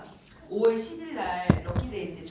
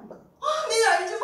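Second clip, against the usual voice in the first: 어, 네, 알죠 squeaked high and loud in surprise; high startled salon owner; 13 semitones higher, 8 dB louder, slower than usual. Retold or imitated. Retelling the salon owner's startled reply, high squeaky voice. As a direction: play the caught-off-guard owner, way up high.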